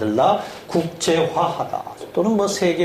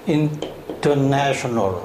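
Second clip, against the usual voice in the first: "international." drawn out syllable by syllable, very slowly; very slow model word; 3 semitones lower, much slower than usual. Shown as a demonstration. Teacher slowly models "international." syllable by syllable for the class. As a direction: stretch every syllable of "international." out for dictation. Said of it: "단어가 길어져 가기 시작합니다".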